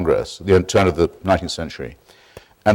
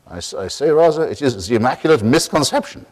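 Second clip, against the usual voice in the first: lightly put-on Israeli accent, higher and wry; a gentle imitation of Avishai's accent, delivering the punchline; mild Israeli accent, wry punchline; 5 semitones higher than usual. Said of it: "I'll try his voice".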